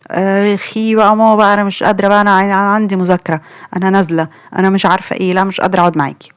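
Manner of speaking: mock-whining teen brushing off mom; whiny daughter. Daughter brushes off her mother. (تقليد بنت متضايقة بتتدلع على مامتها)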